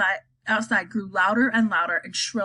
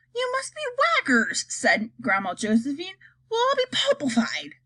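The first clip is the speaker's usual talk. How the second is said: put-on terrified old woman; 7 semitones higher than usual. Grandma terrified.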